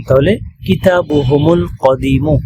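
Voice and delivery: slow কিতাবুহুমুল, মিম linked with dhamma; joined Arabic reading. Shown as a demonstration. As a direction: read কিতাবুহুমুল কদিমু slowly as one phrase. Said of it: "লামে সুকুন".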